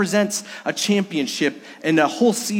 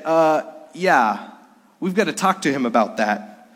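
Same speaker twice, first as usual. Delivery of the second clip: put-on light German-accented English; a hint of a German accent; Dirk Nowitzki German accent. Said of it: "he said it with a German accent".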